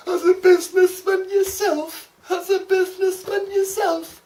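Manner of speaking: high, loud hammed-up Australian ocker voice; bellowing a film line in broad Australian; put-on Australian accent. Vlogger quoting a film character in Australian accent. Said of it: "my Australian accent is shit sometimes".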